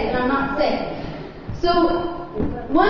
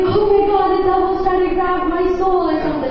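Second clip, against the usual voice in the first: scared; 3 semitones higher than usual. Retold or imitated. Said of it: "I was like".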